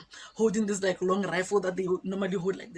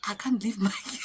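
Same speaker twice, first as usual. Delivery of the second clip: laughing disbelief. Real, not acted. Amused disbelief, laugh heard.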